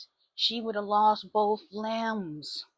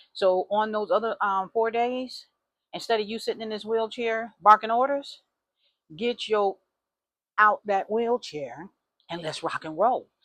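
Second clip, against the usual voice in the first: louder, firm lecture, pitch up; stern scolding; 3 semitones higher, 5 dB louder than usual. Retold or imitated. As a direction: tell her off and push her to move. Scolding friend in wheelchair.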